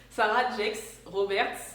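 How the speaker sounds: Sarah Jakes Roberts in a slow, careful English accent; like a French pupil at an English oral. Shown as a demonstration. Vlogger reciting a preacher's name, school-English accent. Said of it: "on dirait que je fais un oral d'anglais".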